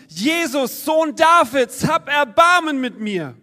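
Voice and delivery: lauter flehender Ruf, hoch und laut; laut rufen. A narrator's reading. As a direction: ruf um Hilfe, so laut du kannst. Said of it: "laut zu rufen". (laut flehend gerufen)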